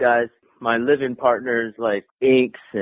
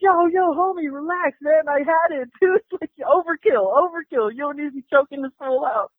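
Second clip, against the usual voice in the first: calming buddy down; 12 semitones higher than usual. Retold or imitated. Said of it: "And I was like".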